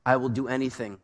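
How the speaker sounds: soft, devoted hush of a lover; a light hint of the hero's tender vow; quietly promising, a touch of romance; tender movie lover. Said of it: "it might sound like this".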